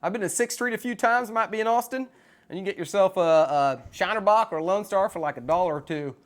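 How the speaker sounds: casual Texan accent, chatting about beer; lightly performed Texan accent. Shown as a demonstration. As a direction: put on an easygoing Texas twang. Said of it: "I can do a Texan accent".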